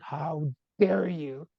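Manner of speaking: retold indignation, stretched out slowly; mock-offended, drawing out each word; irritated. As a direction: act out mild outrage at being questioned. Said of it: "it just irritated me".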